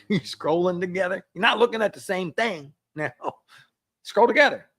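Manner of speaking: amused laugh. Real, not acted. Laughing at couples scrolling.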